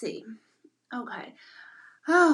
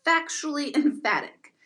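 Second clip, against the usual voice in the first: "Factually emphatic" pitched up, with a little laugh; 5 semitones higher than usual. Real, not acted. Streamer repeating the new phrase, amused emphatic "Factually emphatic". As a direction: stress both words of "Factually emphatic", amused.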